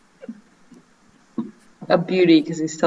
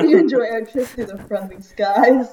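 airline pilot announcement; 4 semitones higher than usual. Pretend. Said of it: "You sounded like an airline pilot".

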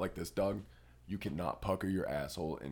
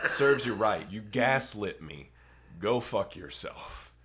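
angry; 6 dB louder than usual. Retold or imitated. Mock telling off the ex.

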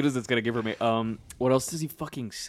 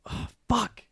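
cricket voice; 11 semitones higher than usual. Retold or imitated. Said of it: "he's like".

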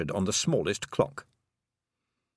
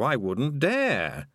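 dry sarcasm; 4 semitones higher, much slower than usual. Acted. Toad slow and dry.

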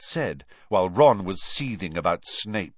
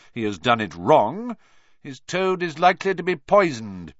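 stern teacher; 3 semitones higher, 4 dB louder than usual. Acted. Snape addresses class, menacing.

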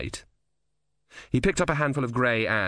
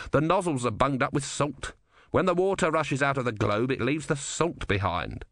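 a touch higher, matter-of-fact explaining; lightly voiced engineer; 4 semitones higher than usual. Ern explains the clogged engine to Simony, lightly voiced engineer. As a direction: lightly voice a practical tinkerer.

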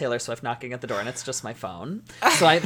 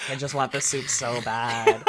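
laughing; 3 dB louder than usual. Real, not acted. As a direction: laugh through the line. Laughing while speaking.

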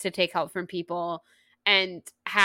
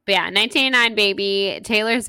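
excited cheer; 7 dB louder than usual. Real, not acted. Excited fan cheering album.

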